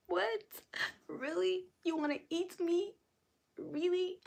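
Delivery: mock surprise. Real, not acted. Streamer reacts to snack comment.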